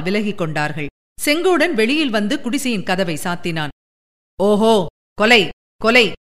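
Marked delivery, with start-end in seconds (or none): 4.4-6.1 louder, slow drawn-out cry of murder. A narrator's reading. Sengodan runs toward the well, crying out murder slowly. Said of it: "என்று கத்திக்கொண்டு".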